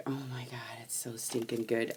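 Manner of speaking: hushed, breathless whisper of delight; gushing whisper. Retold or imitated. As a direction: whisper it like a guilty secret. Retold gushing thought, whispered.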